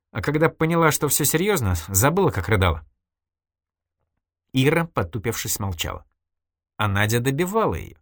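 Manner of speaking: a hint of a reproachful friend; Nadya's voice, lightly voiced. Nadya lightly voiced, reproaching her old friend Irina.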